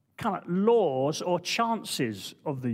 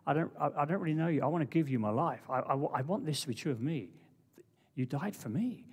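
sample prayer; 4 semitones lower, 4 dB quieter, faster than usual. Pretend. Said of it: "even while we're singing this song".

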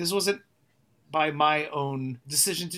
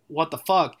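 aggressive retort; 5 dB louder than usual. Retold or imitated. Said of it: "I aggressively responded".

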